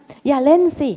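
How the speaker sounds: imitating a parent forbidding play. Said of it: "ห้าม".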